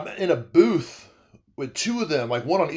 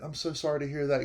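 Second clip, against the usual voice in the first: consoling; 8 dB quieter, faster than usual. Retold or imitated. Consoling a crying widow.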